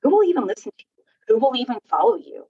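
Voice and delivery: high taunting doubt; inner critic. Retold or imitated. Doubting thoughts attacking the writer, high taunting voice. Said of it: "your head started, like".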